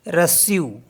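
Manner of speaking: रस्यू with an s then yu; French reçu. Shown as a demonstration. Teacher modeling French reçu. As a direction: say रस्यू, s not k. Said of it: "तो इसको पढ़ते हैं".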